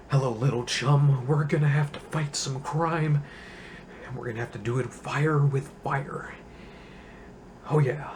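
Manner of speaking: a lightly voiced campy Adam West Batman; just a hint of the old TV Batman; Adam West impression. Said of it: "Adam West".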